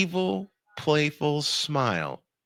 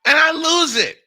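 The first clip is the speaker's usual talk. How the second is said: laughing; 8 dB louder than usual. Real, not acted. Laughing as he recalls.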